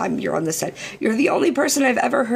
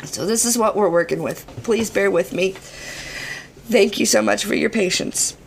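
hoarse, worn-out voice; strained, shot voice; hoarse from yelling. Real, not acted. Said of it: "my voice is shot".

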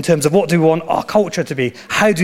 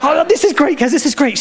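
mock enthusiastic dad; 11 semitones higher than usual. Dad praising daughter.

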